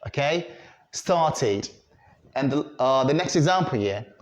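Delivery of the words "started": "Started" with a clear "tid" ending; correct -id ending. Shown as a demonstration. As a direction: model "Started" as STAR-tid. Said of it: "have to be pronounced as started".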